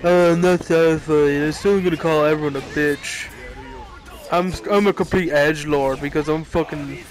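mock Jotaro whining, only a little changed from own voice. Fan mocks Jotaro to the viewers in a light whiny sneer. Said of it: "He's like".

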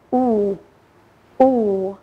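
U held as a long pure "oo"; long oo sound. Shown as a demonstration. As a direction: stretch out the "U" as a long "oo". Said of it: "nguyên âm O đi với nhau sẽ được phát âm là".

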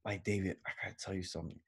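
softly confiding stoner. Retold or imitated. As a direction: tell it like a secret. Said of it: "And he told me that".

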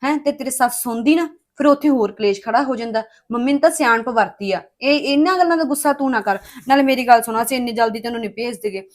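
loud, forceful reasoning; emphatic insisting. Acted. Sister-in-law reasoning with upset Harpreet, loud and insistent. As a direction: press the point home loudly.

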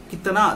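कितना with the final ना held long; drawn-out tone. Shown as a demonstration. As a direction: stretch out the last vowel of कितना. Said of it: "देखिए tone". (कितना का 'ना' खींचकर)

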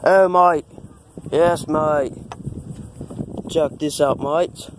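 put-on Australian accent, hearty "mate". Shown as a demonstration. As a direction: play at being an Aussie. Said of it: "Australian voice".

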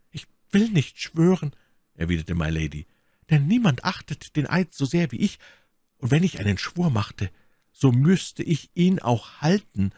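lightly voiced defiant woman; My Lady. A narrator's reading.

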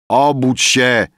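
high, loud wake-up call; shout. A narrator's reading. Rafael waking dozing Emil, loud shout. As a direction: shout to rouse a sleeper. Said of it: "krzyknął Rafael".

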